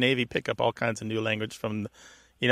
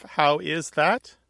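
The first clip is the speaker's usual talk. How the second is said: slow, spelled-out form; 4 semitones higher, much slower than usual. Shown as a demonstration. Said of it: "Is that just a form of".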